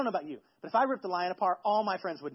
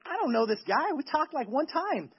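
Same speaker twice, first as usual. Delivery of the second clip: mock protest; 3 semitones higher than usual. Wife protesting under pressure.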